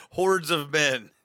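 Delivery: slow, loud trailer voice; mock epic narration. Gamer mocking the battle as an epic announcer, slow and loud. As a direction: boom it out like a game intro.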